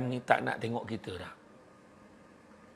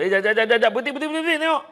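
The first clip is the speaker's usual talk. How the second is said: rising higher, louder calls to stop; excited stopping; 8 semitones higher, 4 dB louder, much faster than usual. Acted. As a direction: stop him in his tracks, climbing. Friend stopping him excitedly.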